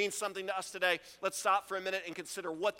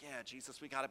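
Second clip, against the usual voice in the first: breezy disciples; 6 semitones lower, 11 dB quieter, faster than usual. Retold or imitated. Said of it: "They're like".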